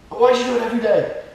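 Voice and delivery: high, loud, fast mock complaint; hammed-up rapid outburst; imitated yelling. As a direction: shout it like an exasperated stranger. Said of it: "and they scream at you".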